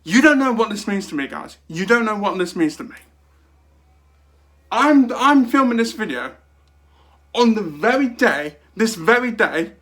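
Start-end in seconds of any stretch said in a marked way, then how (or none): 0.0-1.6 louder, higher gushing to viewers; overjoyed outburst. Real, not acted. 4.7-9.7 loud, higher, thrilled; excited exclaiming. Real, not acted.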